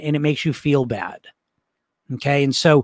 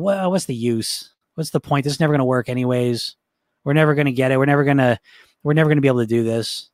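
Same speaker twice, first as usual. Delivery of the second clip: understated hopeless grumble, sinking as it goes; defeated Eeyore tone; 3 semitones lower than usual. Shown as a demonstration. Coach voicing a gloomy inner voice, defeated. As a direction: give up before you start. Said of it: "It got that attitude to it, and, and there's a certain tone to it".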